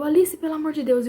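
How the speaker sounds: retold panicked appeal; retold desperate plea. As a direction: plead with her in mild mock panic. Retold plea to choking daughter.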